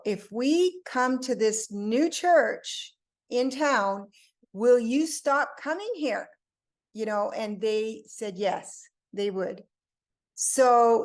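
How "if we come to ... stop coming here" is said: slow, deliberate, rising retold condition; measured question, pitched up towards the end; retold bargaining question. Mom to two church visitors, retold bargaining question.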